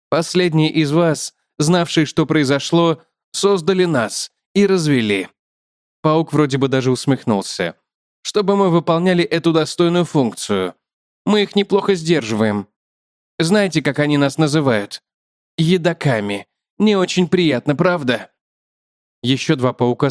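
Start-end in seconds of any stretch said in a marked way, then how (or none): 0.1-5.3 slightly lifted spider character voice; lightly voiced explaining spider; talkative spider. Spider tells the man of an agreement, lightly lifted voice. 8.2-18.3 slightly lifted spider character voice; lightly voiced explaining spider; talkative spider. Spider tells the man of an agreement, lightly lifted voice.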